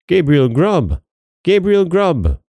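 high wailing cry, falling away; invisible chorus. A narrator's reading. Goblin chorus names its prize, high acted cry. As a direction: chant the name like eerie spirits. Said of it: "The invisible chorus replied".

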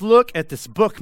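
loud, urgent preacher's call; loud Paul voicing to the church. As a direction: hold up the book and call it out loud. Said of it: "Paul steps into this church and he says".

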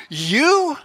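preacher lightly voicing an indignant Peter; Peter blurting. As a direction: blurt it out in mock protest. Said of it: "Peter blurts out".

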